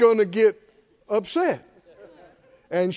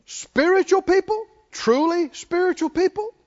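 rising preacher emphasis; preaching; 7 semitones higher than usual. Acted. Preacher calling out to his congregation, rising. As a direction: lift the words to stir the congregation.

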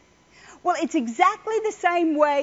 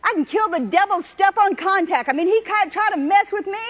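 bold confession; 5 semitones higher than usual. Shown as a demonstration. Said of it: "you ought to get up and say that kind of stuff".

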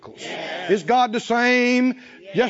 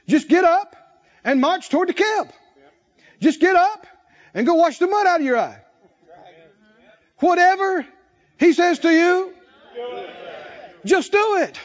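fiery preaching; 6 semitones higher than usual. Acted. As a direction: drive the congregation to act. Preaching at full force.

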